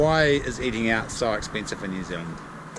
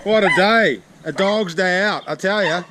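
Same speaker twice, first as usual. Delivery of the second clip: loud, slow, hammy holy moly; excited exclamation; 7 semitones higher, 6 dB louder, slower than usual. Real, not acted. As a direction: exclaim it big and drawn out. Exclaiming at end of day.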